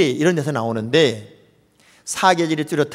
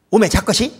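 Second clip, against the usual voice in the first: Jeolla dialect; 3 semitones higher, 4 dB louder than usual. Retold or imitated. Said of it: "전라도 말은요".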